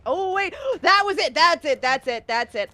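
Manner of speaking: gasp, then high, loud relief; relieved excitement. Real, not acted. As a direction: burst out in relief. Relief after finding door.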